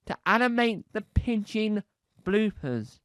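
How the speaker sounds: ordinary talk, nothing marked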